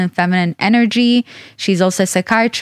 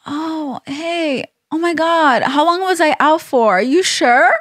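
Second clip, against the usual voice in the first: higher, hammed-up groggy surprise; mock waking up; 7 semitones higher than usual. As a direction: play dumb like you just woke up. Pretends waking up confused.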